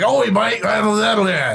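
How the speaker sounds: high, hollered mock-Aussie gibberish; yelled Australian accent. Shown as a demonstration. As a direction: yell like a cartoon Australian. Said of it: "my Australian accent's a lot of, like, yelling".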